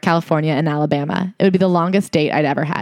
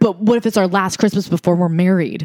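ordinary delivery

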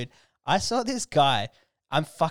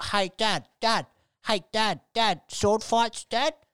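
put-on pestering, high little-boy voice, drawn out; 6 semitones higher than usual. Retelling a little boy in a trolley calling to his dad, imitating a little kid. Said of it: "His little fella's sitting in the trolley".

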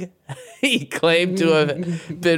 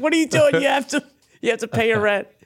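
put-on shouting, much higher; 9 semitones higher than usual. Retelling a scene where one man yells at another: retelling a yell. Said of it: "Just starts yelling at him like".

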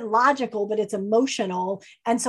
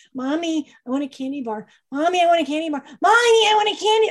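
put-on nagging, high, bratty five-year-old voice; 6 semitones higher than usual. Acting out a child nagging for candy in a supermarket: imitating a bratty five-year-old. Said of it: "my bratty five-year-old".

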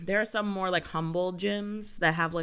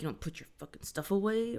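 put-on muttering under breath, quieter; 5 dB quieter than usual. Retelling a gym story, quoting a man: imitating someone mumbling under breath. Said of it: "under his breath, mumbles".

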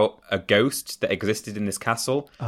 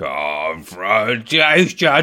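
put-on strange muttered grumble, under breath, louder; 5 dB louder than usual. Retelling how someone grumbled a word: imitating someone grumbling under breath. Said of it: "keeps grumbling confrontation under his breath in a really strange way".

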